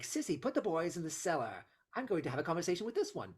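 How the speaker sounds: cold, steely, precise enunciation; each word cold and exact; steely Bellatrix. Retold or imitated. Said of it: "just steely enunciates her words".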